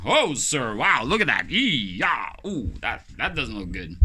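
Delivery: loud, high mock-shocked nurse; mock alarmed nurse. Nurse reacting to his injured finger, hammed-up shock. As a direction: gasp at the wound in a hammed-up nurse voice. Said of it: "That's what they would say".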